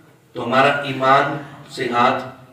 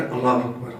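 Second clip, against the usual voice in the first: quick, short اللہ اکبر with no held vowel; hurried; 4 semitones lower, 5 dB quieter than usual. Retold or imitated. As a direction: rattle off اللہ اکبر like a latecomer in a rush. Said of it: "جلدی میں آ کر". (جلدی جلدی، مختصر)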